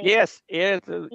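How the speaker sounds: joking New England accent. Real, not acted. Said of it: "my New England accent".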